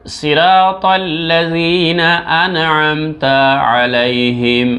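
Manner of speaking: slow, drawn-out recitation; slow melodic tilawat. Shown as a demonstration. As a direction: chant the verse slowly. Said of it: "আবার শুনেন".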